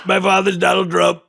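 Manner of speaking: a light Donald Junior voice, hesitant and stammering; a lightly voiced, halting Donald Junior; Donald Junior impression. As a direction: stumble through it like Donald Junior. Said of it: "working on my Donald Junior".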